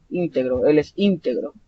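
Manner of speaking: "íntegro" with the beat on ÍN; ÍN-te-gro, as an adjective; stress on first syllable. Shown as a demonstration. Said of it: "sílaba tónica al inicio".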